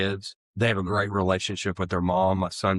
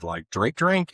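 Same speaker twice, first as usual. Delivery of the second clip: incredulous question; 3 semitones higher, slower than usual. Retold or imitated. Answering the man in AA, incredulous echo of drink. Retold disbelief at sponsor question.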